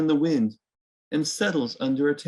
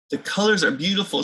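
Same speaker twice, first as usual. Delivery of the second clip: admiring thought; 6 semitones higher, 3 dB louder, faster than usual. Acted. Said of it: "she thinks".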